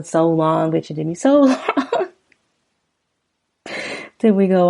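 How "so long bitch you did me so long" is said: laughing mid-line at the repeat. Shown as a demonstration. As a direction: crack up while quoting it. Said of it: "It just repeats the".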